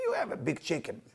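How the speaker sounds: quoting himself through a laugh; laughing retell. Retold or imitated. Newcomer recalls asking about Thanksgiving, laughing. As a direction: chuckle while saying it. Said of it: "I said".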